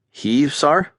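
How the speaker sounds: high, startled question; surprised cadet. A narrator's reading. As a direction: catch him off guard.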